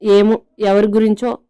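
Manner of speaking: touch of petulant anger; understated sulky retort; mildly annoyed. A narrator's reading. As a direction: say it in a small huff. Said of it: "అంటుంది చిరుకోపంగా".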